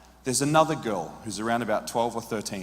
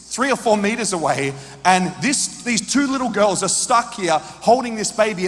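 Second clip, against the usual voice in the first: rising louder and higher with indignation; righteous anger; 5 semitones higher, 3 dB louder than usual. Retold or imitated. Preacher recalling the scene, indignant and growing louder. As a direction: build from indignant to outraged. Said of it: "filled with righteous anger".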